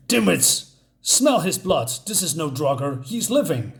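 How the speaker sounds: lightly acted scolding of underlings; a touch of a bossy troll's temper; aggressive troll. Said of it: "The troll is very aggressive, and he says".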